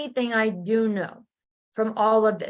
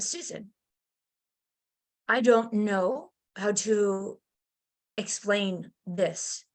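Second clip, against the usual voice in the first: stiff professional doctor; 2 semitones lower, slower than usual. Retold or imitated. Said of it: "trying to be all professional".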